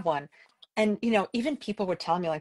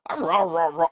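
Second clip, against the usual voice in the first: grumbling dog imitation; 3 semitones lower than usual. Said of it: "just like he's pissed".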